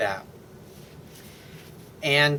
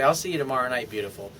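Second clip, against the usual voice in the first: tender sign-off; 3 semitones lower, 4 dB quieter, faster than usual. Shown as a demonstration. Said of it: "That's usually what I would say".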